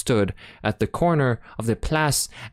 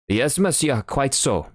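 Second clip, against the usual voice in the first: put-on German accent; 6 semitones higher than usual. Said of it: "with a strong German accent".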